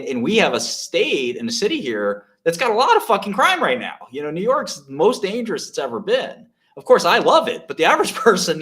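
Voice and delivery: rising outrage; raising the voice over city crime; heated rant. Real, not acted. Rant about New York crime.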